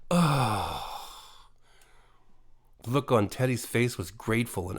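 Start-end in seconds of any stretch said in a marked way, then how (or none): 0.1-0.9 lightly voiced creature sighing in relief; relieved sigh. A narrator's reading. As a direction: breathe out the oh, relieved. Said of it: "sudden relieved sigh".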